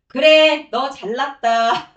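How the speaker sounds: loud, high mock concession; mocking "fine, you win"; sarcastic retort. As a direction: throw it back sarcastically, slow on the end. Sarcastic retort to stubborn Jonah.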